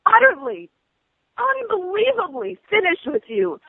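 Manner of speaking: rising, furious rant at the agent; angry rant. Real, not acted. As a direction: let the anger build and spill over.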